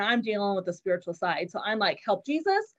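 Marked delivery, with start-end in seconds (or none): 2.0-2.7 a retold rebuke, higher and a bit louder on "devil"; rebuking the devil. Mother retelling how she rebuked the seizure, forceful prayer. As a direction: command the sickness to leave, retold with moderate force. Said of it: "I'm, like, rebuking the seizure".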